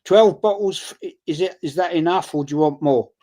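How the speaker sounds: reading out his wife's text to his mate, lightly voiced; quoting wife. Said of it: "she just said to me".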